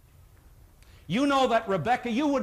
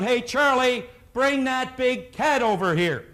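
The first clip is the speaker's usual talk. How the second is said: mild mock yell of a workman; retold yell; 3 semitones higher than usual. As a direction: call out lightly across a building site. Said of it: "this guy yells out".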